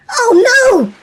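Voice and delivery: put-on loud, high child's alarm; Oh no! cried out, loud and high; alarmed cry. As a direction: cry out as the coconuts fly. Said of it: "cried Willy".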